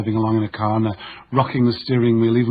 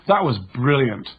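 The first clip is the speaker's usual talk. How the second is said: annoyed sarcasm; slower than usual. Retold or imitated. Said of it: "with a tonality that communicates annoyance".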